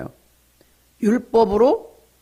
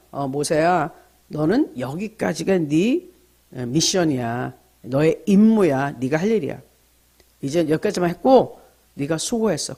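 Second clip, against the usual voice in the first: gentle God. Acted. God speaking gently to Moses.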